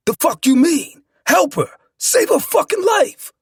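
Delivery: anguished, angry demand; furious desperate shout. A narrator's reading. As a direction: yell at the doctors to save her. Husband furious at giving-up doctors.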